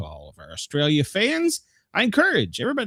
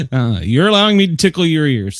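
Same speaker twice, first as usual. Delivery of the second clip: hyped host; 2 semitones higher, 7 dB louder than usual. Acted. Host ramps up on air.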